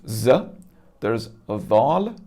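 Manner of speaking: Z and Dhal sounded out with rising tune; attempted Arabic pronunciation. Shown as a demonstration. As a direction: carefully imitate Arabic Z, then Dhal, as a non-native. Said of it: "try my best to replicate how that might sound".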